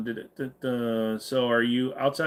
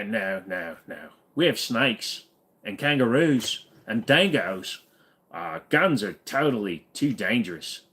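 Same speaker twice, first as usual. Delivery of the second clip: put-on Aussie accent. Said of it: "slipping into Aussie".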